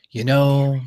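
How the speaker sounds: lightly voiced film-star impression; light American actor impression; Jack Nicholson. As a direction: drawl it as a hint of impersonation. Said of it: "young Jack Nicholson a little bit".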